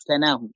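كناه with a short, single n; كناه in its unstressed-n form, "kanahu"; light consonant. Shown as a demonstration. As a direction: say كناه as ka-na-hu, no doubling. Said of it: "تكون بالتخفيف".

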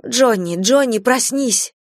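alarmed calling out; urgent waking call. A narrator's reading. Mother wakes husband in panic.

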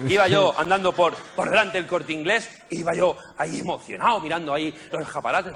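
ordinary talk

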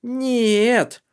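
a high, loud, sure "no"; flat denial thrown out; confident refusal. Acted. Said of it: "уверенно заявил Калгрим".

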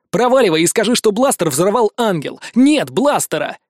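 loud, slowing at the end; shouted orders. Acted. Hero shouts his message for the bandit to carry. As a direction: drive the order home.

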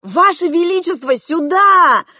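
high, loud desperate yell; desperate shout. A narrator's reading. Girl calling the king across the crowd, desperate shout. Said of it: "в отчаянии закричала я".

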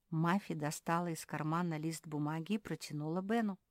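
ordinary delivery

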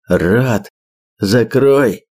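gurgling through blood, panting; bloody mouth. Acted. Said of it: "булькая кровью, пропыхтел задыхающийся охотник".

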